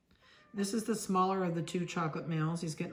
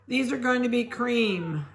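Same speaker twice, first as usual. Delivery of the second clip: ordinary talk, nothing marked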